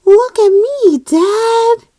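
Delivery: high, loud eager shout; bright kid calling look at me; excited child call. Acted. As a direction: call out proudly to dad. Tad calls out.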